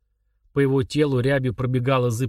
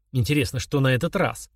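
urgent panting report. Acted. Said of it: "задыхаясь, выкрикнул Сергей".

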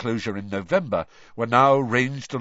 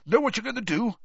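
Bagman; 11 semitones higher, faster than usual. A narrator's reading. Bagman voiced, asking Harry.

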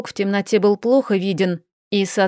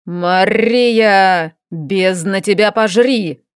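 рычание дракона; 3 dB louder, much slower than usual. Acted. Разбуженный дракон рычит на девушку.

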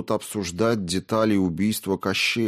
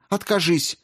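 high, raised urgent voice; fierce demand; 9 semitones higher than usual. A narrator's reading. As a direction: demand he give her up. Olga pleading angrily.

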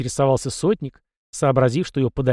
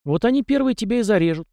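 high, fast, spiteful jab; malicious sneer; 9 semitones higher, faster than usual. A narrator's reading. Captain warns the boy about his serfs, malicious. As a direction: taunt with a nasty edge. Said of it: "зло усмехнулся сотник".

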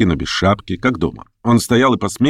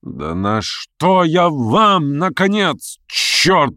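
angry exclamation; 7 semitones higher, much slower than usual. A narrator's reading. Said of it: "вскричал в решительном гневе и изумлении".

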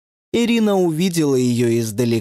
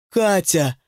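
pleading; 5 semitones higher than usual. Acted. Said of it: "взмолилась Ирина".

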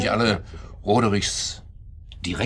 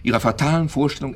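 loud, high insistence; raised voice, refusing to be cut off; shouting; 7 semitones higher, 6 dB louder than usual. Acted. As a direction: shout them down. Keeps shouting over others.

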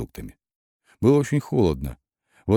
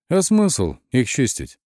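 slow, mildly weary sigh; understated sighing question, higher and slow; heavy sigh; 5 semitones higher, slower than usual. A narrator's reading. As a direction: drag it out with a resigned sigh. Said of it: "с тяжёлым вздохом сказал".

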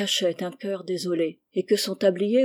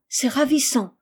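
high-pitched, delighted exclamation; enchanted, lifted voice; delighted praise; 5 semitones higher, 3 dB louder than usual. A narrator's reading. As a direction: gush with admiration. Delighted praise after the song.

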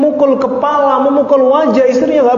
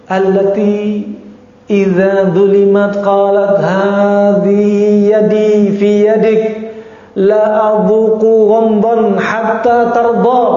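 slow Arabic recitation; much slower than usual. Acted. Reciting the Arabic hadith text.

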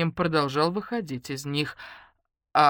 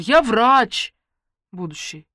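offended; 5 semitones higher, 8 dB louder, slower than usual. Acted. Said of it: "обиделась Ленка".

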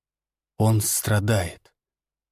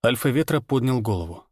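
plain reading voice

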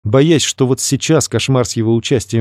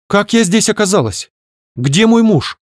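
put-on bewildered young woman; 10 semitones higher than usual. Confused stranger just revived.

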